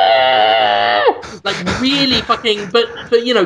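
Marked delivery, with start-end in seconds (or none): 0.1-1.4 computerized scream. Retold or imitated. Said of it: "you'd just hear".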